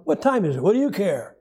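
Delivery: mildly mocking, brusque New Yorker; sarcastic New Yorker. New Yorker brushing off someone asking the time, sarcastic. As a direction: toss it back with a touch of sarcasm. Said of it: "New Yorkers tend to be sarcastic".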